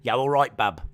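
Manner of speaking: lightly done Black Country accent. Shown as a demonstration. Streamer demoing how Black Country folk talk, lightly accented. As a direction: say it the Dudley way, lightly. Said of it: "Black country. Talk a little bit like this".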